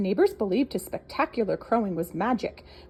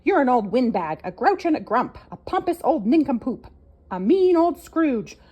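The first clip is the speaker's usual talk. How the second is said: shouting; 3 semitones higher, 5 dB louder than usual. Acted. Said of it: "everyone shouting at once".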